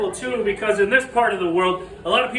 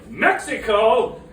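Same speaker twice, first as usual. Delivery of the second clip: confused asker; 4 dB louder, much slower than usual. Retold or imitated. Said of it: "they'll always say".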